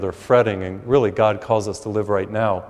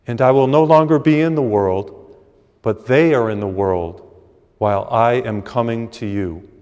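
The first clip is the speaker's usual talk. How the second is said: gospel reading. Acted. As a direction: read the Gospel to the congregation with weight. Scripture reading before the sermon.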